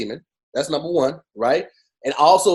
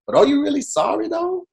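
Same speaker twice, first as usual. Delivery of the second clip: pleading mock question, pitch jumping up; mocking the apology. Host mocks the rapper's apology with pleading voice. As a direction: needle him with a half-sincere plea. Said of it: "be like".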